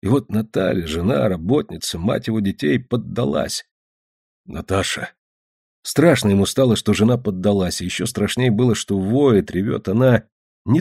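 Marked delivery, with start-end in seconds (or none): 4.4-5.1 softly calling to his wife, lower; soft, affectionate address; tender. A narrator's reading. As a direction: say the name gently, consoling. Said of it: "ласковую его речь".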